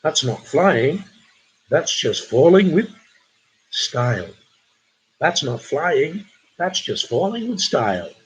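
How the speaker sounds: slow, deliberate movie line delivery; measured, theatrical quote with pauses; film character quote. Acted. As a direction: draw it out like a film hero. Acted film quote for the quiz.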